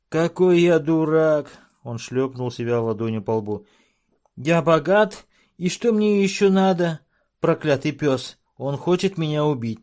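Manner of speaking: high, loud dwarf voice; self-cursing dwarf. A narrator's reading. Dwarf cursing rival before chief, high loud. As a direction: berate yourself and curse.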